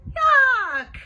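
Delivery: loud, high cry of disgust. A narrator's reading. Bean rejects Ivy's boogers idea, disgusted. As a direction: recoil with a big drawn-out yuck.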